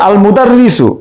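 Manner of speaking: "আল মুদাররিসু" with the article's lam audible; lam pronounced. Shown as a demonstration. Teacher showing an Arabic moon-letter word, lam sounded in "আল মুদাররিসু". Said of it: "আলিফ লামের লাম উচ্চারণ হচ্ছে".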